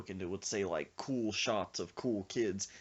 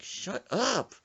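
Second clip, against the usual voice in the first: high, sharp burst of annoyance; exasperated yell; 11 semitones higher, 4 dB louder than usual. Retold or imitated. Rider silencing his screaming friend, exasperated yell.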